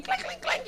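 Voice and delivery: very high beer-bottle clinks; imitated clinking. Comic describes a noisy bar, high clinking noises. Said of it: "You'd hear beer clinking".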